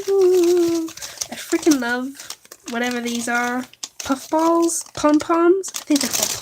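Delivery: high, loud and delighted; excited. Real, not acted. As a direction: squeal with delight. Delighted at finding craft supplies.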